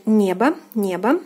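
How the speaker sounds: небо with final unstressed о said as "a"; teacher's careful небо, о reduced to "a"; model pronunciation. Shown as a demonstration. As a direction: say небо as "NYE-ba", clearly for learners. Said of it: "O is unstressed here and is pronounced as A".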